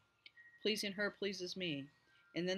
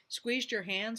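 foreboding; 7 semitones higher, 5 dB louder, slower than usual. A narrator's reading. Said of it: "in a tone implying ... the darkest foreboding".

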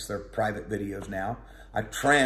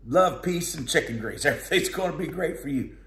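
mock prophets; 5 semitones higher than usual. Mocking the four hundred prophets.

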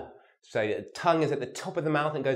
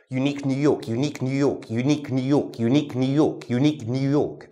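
fast repetition; faster than usual. Shown as a demonstration. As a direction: rattle off "unique New York" quickly. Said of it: "repeat this as fast as you can".

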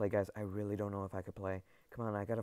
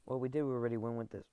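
ordinary talk

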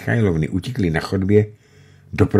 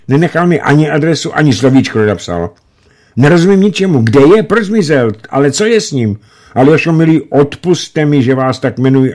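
put-on anxious young woman; 8 semitones higher, 4 dB louder than usual. A narrator's reading. Anna anxiously asking after Grisha.

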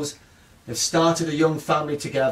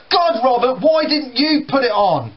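higher, louder irritated brother; annoyed teenager; 9 semitones higher, 5 dB louder than usual. Retold or imitated. Brother irritated at breakfast, higher and louder. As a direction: snap back, fed up. Brothers quarrel in acted scene.

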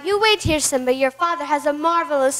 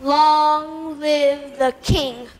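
cold menace; much slower than usual. Acted. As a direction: savor each word coldly. Villain's slow cold farewell.

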